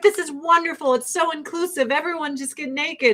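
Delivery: high, sing-song fake delight; mock the guests' sugary enthusiasm; mock gushing praise. Party guests praising the event, high mock gushing. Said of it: "They're like".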